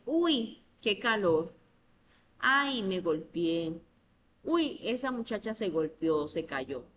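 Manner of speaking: a touch of acted surprise on each interjection; mock exclamations. Shown as a demonstration. Teacher acts out interjections for students, mildly exclaiming. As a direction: toss off each exclamation lightly, like a real reaction. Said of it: "como cuando usted dice".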